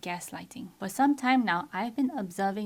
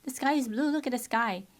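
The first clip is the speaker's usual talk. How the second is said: firm; 5 dB louder than usual. Retold or imitated. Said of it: "I was very firm with them".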